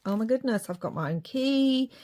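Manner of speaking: lightly acted excitement, rising at the end; excited daughter. Daughter thrilled with her own key, mildly acted excitement. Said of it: "Vicky's so excited because she's just like".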